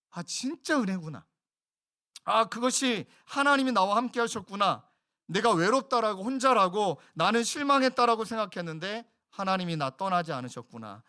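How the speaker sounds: heartfelt outburst of wonder to God; bursting awe. Acted. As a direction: exclaim as if grace just dawned on you. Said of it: "절망을 관통하며 하나님께 터뜨리는 감탄".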